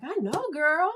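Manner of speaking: high, sassy gossip breaking into laughter; catty teen agreement with a laugh; teenage girl. Acted. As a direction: dish it like a best girlfriend. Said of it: "channel my, my teenage girl".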